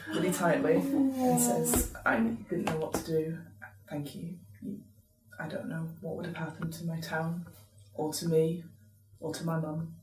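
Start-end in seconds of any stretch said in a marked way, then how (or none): 2.0-9.9 hushed, halting thanks from a townsperson; quiet, grateful. Acted. Fiona gripping a rescuer's hand, quietly grateful. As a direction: say it low and soft, with gaps.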